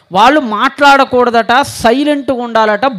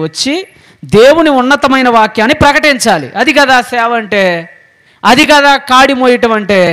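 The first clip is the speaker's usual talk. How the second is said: emphatic preaching; 3 semitones higher, 4 dB louder than usual. Real, not acted. Preacher questions the congregation forcefully.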